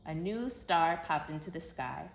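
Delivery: gentle, storybook read-aloud voice; reading to children. A narrator's reading. Narrator telling kids the Christmas story, storybook voice. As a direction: tell it like a bedtime story for little ones.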